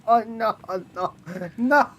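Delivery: high, loud words through real laughter; laughing. Real, not acted. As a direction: still cracking up while protesting. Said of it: "that's funny".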